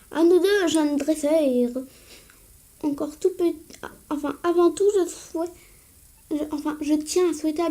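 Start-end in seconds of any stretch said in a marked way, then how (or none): 0.1-1.8 doyen solennel. Acted. Doyen défie, ralenti.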